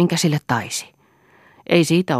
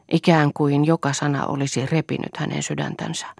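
usual speaking voice

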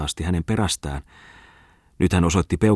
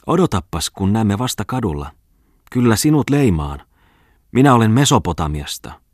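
higher, louder furious threat; angry shout; 5 semitones higher, 4 dB louder than usual. Acted. The girl threatening Tommola from the hall, angry shout. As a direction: yell a threat from the hallway. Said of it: "tytön kiukkuinen huuto".

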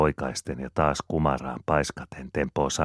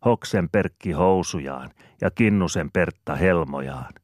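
playful rhyme; 3 semitones higher, 5 dB louder than usual. Acted. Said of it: "miettii ja jatkaa".

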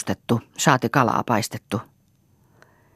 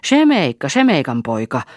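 screamed name; 3 semitones higher, 5 dB louder than usual. Acted. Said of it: "huusi Eukko". (kirkuva huuto)

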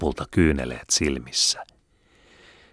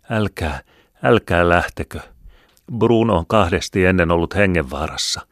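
higher, louder, urgent plea from a tearful mother; mother pleading with her son's friend to stay, higher and louder; 4 semitones higher, 4 dB louder than usual. Acted. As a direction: beg them not to go, pressing hard. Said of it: "puhui minulle kiihkeästi, silmät itkettyneenä".

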